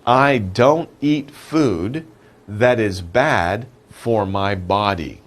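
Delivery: slow, clear reading of the example sentence. Shown as a demonstration. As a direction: read it out word by word. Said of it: "The sentence is".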